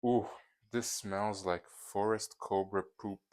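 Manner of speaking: nose stuffed with tissue, blocked; tissue up one nostril. Real, not acted. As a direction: talk through a paper-plugged nose. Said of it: "so I stuffed, uh, toilet paper up my nose".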